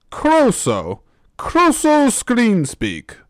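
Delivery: high, slow hammed-up Welsh accent; put-on Welsh accent. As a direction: stretch it out in a silly high Welsh voice. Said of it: "Why does my voice have to change".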